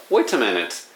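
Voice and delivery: "wait a minute" with an attempted British accent; lightly British "wait a minute", crisp t in "wait". Shown as a demonstration. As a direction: say "wait a minute" like an English person, t pronounced. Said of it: "British accent".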